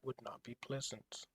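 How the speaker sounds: steady read-aloud narrator voice; story narration. A narrator's reading. Streamer reading the game's text to chat, narrator style. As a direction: narrate the scene for viewers.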